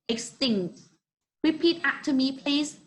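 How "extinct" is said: "Extinct" with the weight on "tinct"; stress on second syllable. Shown as a demonstration. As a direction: model "Extinct" for learners, stressing its last syllable. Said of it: "you need to pronounce it like this".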